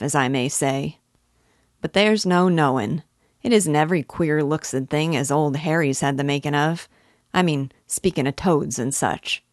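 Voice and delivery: rambling country dialect, mildly lively; a hint of a well-meaning, opinionated villager; lightly voiced old parish clerk. Old clerk advising the silent weaver, lightly voiced rustic rambling.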